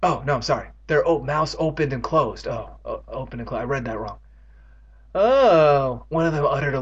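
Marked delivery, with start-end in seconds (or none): 5.1-6.1 groan. Acted. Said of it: "long, low groan".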